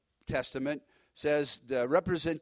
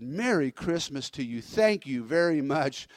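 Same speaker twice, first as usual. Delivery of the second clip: mildly delighted thanks, slowing on the thank-you; heartfelt festive greeting, lightly imitated; lit up. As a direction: brighten up into a grateful greeting. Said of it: "And he just lit up".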